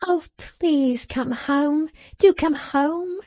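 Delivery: high, slow, pleading wife; mild acted tearful begging; sobbing plea. A narrator's reading.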